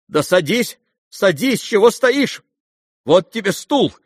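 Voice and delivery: quick, urgent, fussing; flustered bustle. A narrator's reading. Mother fusses over the exhausted youth, flustered. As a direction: hurry him into a chair. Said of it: "Вскинулась Лизавета Прокофьевна".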